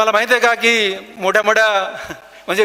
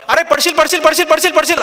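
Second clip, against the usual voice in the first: higher-pitched crowd heckling, voice raised; crowd jeering; 6 semitones higher than usual. Retold or imitated. Telling the story to students, voicing the crowd that heckles the climber with raised jeering. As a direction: jeer like a nervous crowd warning him he'll fall. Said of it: "असं एक मधले पन्नास लोक म्हणतात ना".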